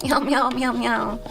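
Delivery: playful string of cat meows; meowing like a cat. Pretend. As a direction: meow repeatedly like a kitten. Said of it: "By meowing a bunch".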